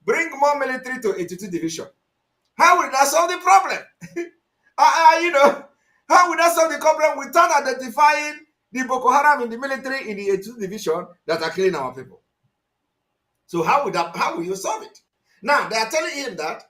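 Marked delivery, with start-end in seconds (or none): 2.6-11.1 indignant loud question. Real, not acted. Commentator challenges, louder.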